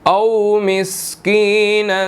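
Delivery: slow melodic tajweed chant; Quran recitation. Shown as a demonstration. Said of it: "Quran recitation with tajweed". (धीमी तजवीद वाली तिलावत)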